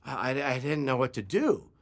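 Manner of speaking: soft, halting mumble; subdued, stumbling confession; sheepish apology. Retold or imitated. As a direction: apologize quietly, ashamed and hesitant. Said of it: "he just kinda looked at his feet".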